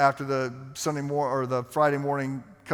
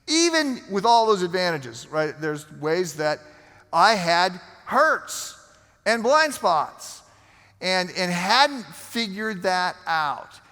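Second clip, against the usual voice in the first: raised pitch, weighty slow phrases; emphatic preaching; 4 semitones higher, 4 dB louder, slower than usual. Real, not acted. Preacher admitting his own blind spots to the congregation, emphatic. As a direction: preach it slowly, leaning on each phrase.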